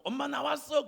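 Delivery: high home-coming call; child calling mom. Retold or imitated. Child arriving home to mother, high calling voice.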